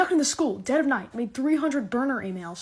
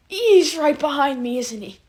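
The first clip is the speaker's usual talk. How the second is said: mock fearful whisper; 5 semitones higher, 8 dB louder than usual. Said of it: "This is me if someone's behind me".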